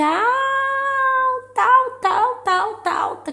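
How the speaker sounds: high emphatic. Real, not acted. Describing loud music.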